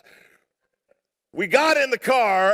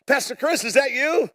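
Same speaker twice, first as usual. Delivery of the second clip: higher-pitched mock astonishment; imitated surprised recognition; 4 semitones higher than usual. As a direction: call out as if spotting someone unexpected. Acts couple recognizing him at light.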